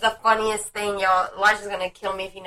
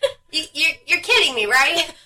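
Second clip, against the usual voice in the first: asking if he's serious, pitch up; incredulous; 5 semitones higher than usual. Retold or imitated. Mother to her scared son, rising disbelief. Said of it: "I'm like".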